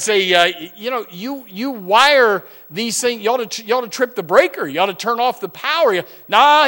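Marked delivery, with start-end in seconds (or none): 6.3-6.7 retold brush-off. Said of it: "he said".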